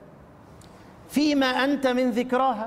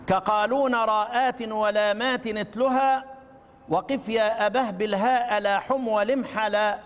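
chanted verse in a steady tune; recited verse. Shown as a demonstration. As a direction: recite the line for the class. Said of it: "أقرأ لكم البيت الأول". (إنشاد البيت بنغمة ثابتة)

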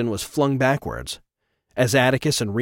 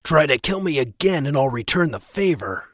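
growl. Acted. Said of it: "With a growl".

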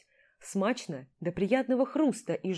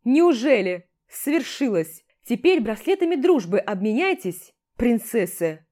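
sarcastic mockery; 3 semitones higher, 6 dB louder than usual. Commander mocking the two.

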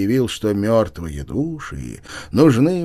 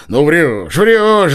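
loud, higher shout of «врёшь»; 5 semitones higher, 7 dB louder, much slower than usual. Acted. Nozdryov shouts down Chichikov's excuse. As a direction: yell him down. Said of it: "закричал опять Ноздрёв".

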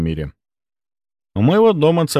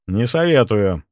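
cold and weighty. Acted. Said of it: "Мой голос прозвучал холодно и веско".

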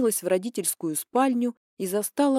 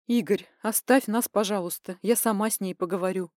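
ordinary talk

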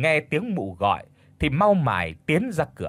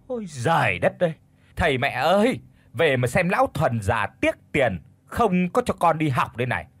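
wailing complaint; 3 semitones higher than usual. Acted. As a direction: howl your grievance like a wronged wife. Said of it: "bù lu bù loa lên".

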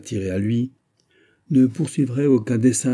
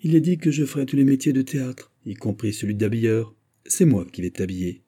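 joking tone; 2 semitones higher than usual. Acted. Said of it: "affectant un ton de plaisanterie".

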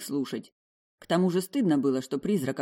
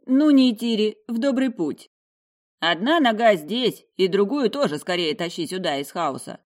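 higher, louder jovial farewell; hearty send-off; 5 semitones higher, 6 dB louder than usual. A narrator's reading. The examiner sending the girl on her way, hearty and loud. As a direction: cheer her off warmly.

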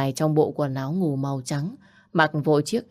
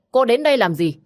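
higher, indignant demand; angry challenge; 7 semitones higher, 4 dB louder than usual. Acted. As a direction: confront an unwelcome visitor, pitch raised. Hostile confrontation outside the house. (giọng chất vấn gay gắt)

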